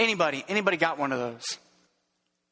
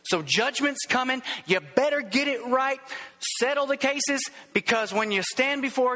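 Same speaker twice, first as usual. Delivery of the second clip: "So judgment's coming" preached higher, with a weighty fall on "coming"; hellfire brimstone warning; 4 semitones higher than usual. Shown as a demonstration. Pastor demos the hellfire sermon ending, raised and grave. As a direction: lean in like a fire-and-brimstone preacher. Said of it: "the hellfire brimstone ending is this".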